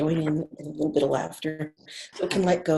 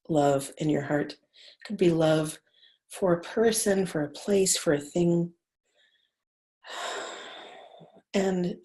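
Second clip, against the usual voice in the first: guided meditation. Acted. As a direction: lead them gently into the heart.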